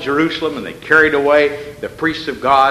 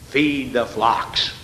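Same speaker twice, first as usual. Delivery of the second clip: slow reading; 3 semitones lower, 4 dB quieter, much slower than usual. Shown as a demonstration. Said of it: "I want you to underline".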